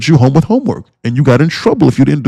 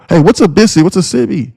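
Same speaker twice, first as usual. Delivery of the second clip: high clueless newbie voice; mock newbie question; 6 semitones higher than usual. Streamer imitating Discord members, high clueless newbie voice. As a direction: ask it like a lost beginner.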